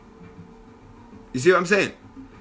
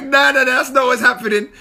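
telling him off; 3 semitones higher than usual. Retold or imitated. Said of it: "I'm like".

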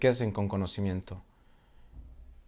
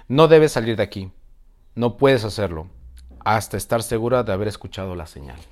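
forceful, louder dragon; 10 dB louder, faster than usual. Acted. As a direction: boom it out like a dragon. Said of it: "se expresó con mucha fuerza".

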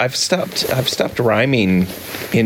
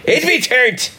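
high squeaky voice; 13 semitones higher than usual. Pretend. Mocking the beer name.

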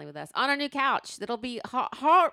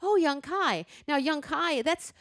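imitating dad's questions; 7 semitones higher than usual. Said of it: "And he'd go".

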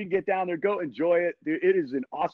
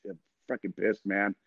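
grumbling anger; 6 semitones lower, 6 dB quieter than usual. Retold or imitated. Angry rider telling the mechanic.

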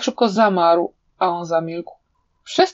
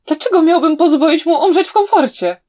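higher, louder with a laugh; 8 semitones higher, 4 dB louder than usual. A narrator's reading. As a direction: laugh through the taunt. Villain laughs while answering. (ze śmiechem, wyżej i głośniej)

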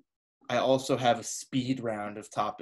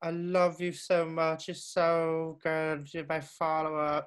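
slow higher gushing to followers; influencer voice; 3 semitones higher than usual. Retold or imitated. Host mocking influencers, slow higher gush. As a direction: drawl love to your fans. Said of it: "It sounded like David Bowie".

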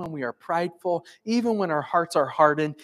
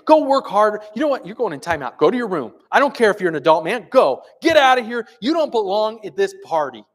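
loud, much higher, fast angry dismissal; harsh scolding; 6 semitones higher, 7 dB louder than usual. Pretend. Father sending his bratty son away, angry. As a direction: bark him out of the room.

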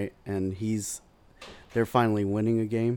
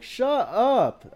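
high, loud snapped shut up; high loud retort; retold shut up; 7 dB louder than usual. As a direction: bark it back at him. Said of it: "I make sure to say".

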